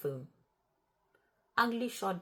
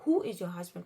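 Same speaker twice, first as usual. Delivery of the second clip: louder repeated question; loud demand; 6 dB louder than usual. Retold or imitated. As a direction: press the caller for an answer.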